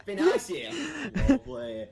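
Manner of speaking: mock-British slang, starting high and loud; hammed-up British accent. Englishman answers friend's impression, hammed-up British accent. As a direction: ham up the British lad.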